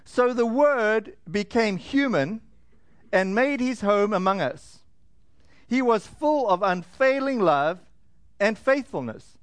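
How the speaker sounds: slow, measured verse with pauses between phrases; scripture reading. A narrator's reading. Preacher reading verse fourteen to the congregation, slow scripture reading. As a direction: read it out slowly and deliberately. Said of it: "is in verse fourteen".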